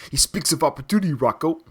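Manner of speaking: quick, lightly imitated movie line; a hint of the character's voice, rattled off fast; brisk quote in a mild impression; Paulie. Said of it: "I love Paulie's acting there".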